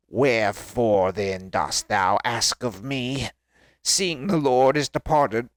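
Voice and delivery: strained, drawn-out zombie voice; Samuel. Acted. Dead Samuel questions Saul, strained zombie voice. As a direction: intone it like the risen dead, straining the throat. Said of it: "I'm sorry, my zombie voice".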